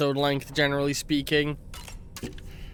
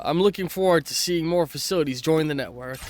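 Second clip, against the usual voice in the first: badly faked Australian accent; amateur Aussie accent, reading aloud; attempted Australian accent. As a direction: read the message as a would-be Australian. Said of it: "I cannot do an Australian accent".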